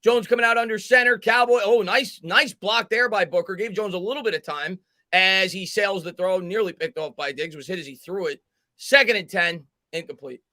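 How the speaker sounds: brisk live play call. Acted. Narrating the Giants drive as live play-by-play. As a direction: call it like a broadcaster.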